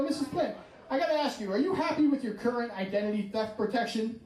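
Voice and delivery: lightly disguised phone salesman; a hint of put-on sales caller. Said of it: "I disguise my voice".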